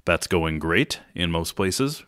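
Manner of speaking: slow, dry sarcasm; sarcastic. Real, not acted. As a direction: say it deadpan, meaning the opposite. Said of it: "That's sarcasm there".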